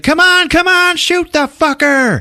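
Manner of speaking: loud, high frantic urging; acted urgent shout. Woman urging Rusty to shoot, imitated urgent shout. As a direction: yell it like a panicked bystander.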